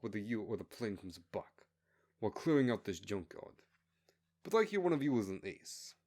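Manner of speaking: a hint of a scornful jailer; contemptuous base commander. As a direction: talk down to the convicts with disdain. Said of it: "the base commander said".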